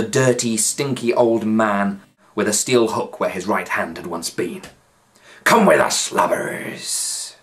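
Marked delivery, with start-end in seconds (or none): 5.4-7.3 louder, rough pirate growl; gruff pirate. A narrator's reading. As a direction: bark the order at the prisoners. Pirate leader speaks.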